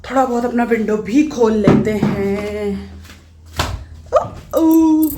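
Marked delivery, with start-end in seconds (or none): 4.1-5.1 sudden high, loud exclamation; startled cry; surprised oh. Real, not acted. Vlogger startled while opening her window, sudden loud oh.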